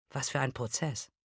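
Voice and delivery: tense question. A narrator's reading. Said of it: "fragt sie etwas verspannt".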